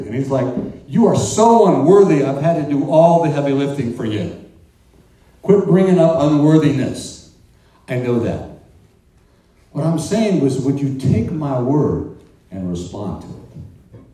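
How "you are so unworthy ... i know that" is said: loud, exasperated rebuke; an impatient God cutting Moses off; booming fed-up reply. Acted. God answering Moses, acted exasperation.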